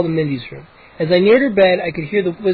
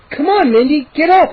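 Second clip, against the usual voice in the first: much higher, loud plea; pleading; 9 semitones higher, 4 dB louder than usual. A narrator's reading. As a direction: coax her out of bed. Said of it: "I pleaded".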